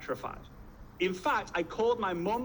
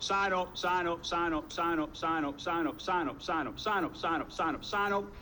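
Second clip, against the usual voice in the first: rapid-fire repetition. Retold or imitated. Mimics obsessive repeated signing up.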